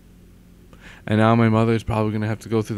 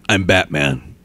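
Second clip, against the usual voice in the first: Batman; 2 semitones lower, 5 dB louder, slower than usual. Shown as a demonstration. Vlogger trying out an impression, gruff hero voice. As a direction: growl it as a dark vigilante. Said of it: "I'll try to do a Batman voice".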